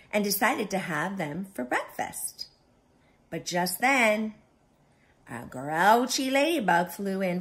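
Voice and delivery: lively read-aloud with clear, projected phrasing; storyteller pacing out each phrase for little listeners; children's story narration. A narrator's reading. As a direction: read a picture book to young children.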